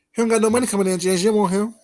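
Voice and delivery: teasing jeer at the rival; mocking taunt. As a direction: rub it in with a taunt. Mocking taunt about James's man.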